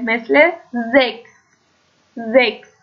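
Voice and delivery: زکس said slowly, chs as ks; German chs as ks. Shown as a demonstration. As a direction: say زکس with a crisp ks.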